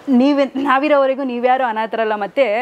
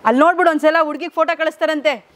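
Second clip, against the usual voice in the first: coaxing; 5 semitones higher than usual. Real, not acted. Coaxing old man to answer.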